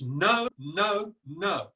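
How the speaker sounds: firm, repeated no; emphatic refusal. Shown as a demonstration. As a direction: say each no like you mean it. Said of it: "three times with a tone of voice".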